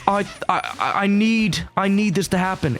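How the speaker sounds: put-on high, pleading little boy on the verge of tears; Victorian child. The inner little boy begging for the game, high and near tears. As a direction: whimper it like a fussy Victorian child. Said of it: "And he was like".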